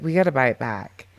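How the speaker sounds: offhand and casual, no weight on it; nonchalant. Retold or imitated. To mom and sister at the kitchen table, casually offhand. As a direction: toss it out like it's nothing. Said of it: "nonchalantly said".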